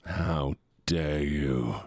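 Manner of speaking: slow, drawn-out mock shout of offense; hammed-up how-dare-you; mock outrage. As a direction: act scandalised, stretching every word.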